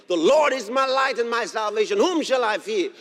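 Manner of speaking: loud preached declaration; bold proclamation. Real, not acted. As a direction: proclaim it boldly to the congregation. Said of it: "then I'll boldly proclaim".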